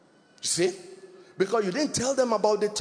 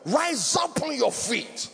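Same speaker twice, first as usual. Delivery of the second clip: retold command; 6 semitones higher, slower than usual. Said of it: "he yelled with a loud voice".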